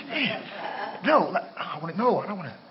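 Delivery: mock inner argument. Acting out distracted prayer thoughts.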